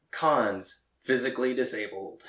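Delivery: flat robotic announcer. Retold or imitated. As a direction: read it like a robot. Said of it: "and says it like that".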